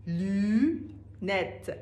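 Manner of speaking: لونت drawn out very slowly with a rounded u; لونت را خیلی آهسته و کشیده بگو; French lunettes. Shown as a demonstration. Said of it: "teacher models French word". (لونت آرام، با او گرد)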